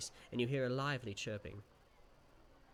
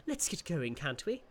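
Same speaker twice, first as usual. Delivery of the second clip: impatient; 5 semitones higher, 3 dB louder than usual. Acted. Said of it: "it grumbles impatiently".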